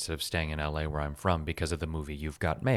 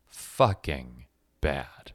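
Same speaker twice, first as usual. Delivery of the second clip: each word dropped slowly and coldly; slow cutting verdict; much slower than usual. Retold or imitated. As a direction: let it land slowly, like a blow to the heart. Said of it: "having received emotionally".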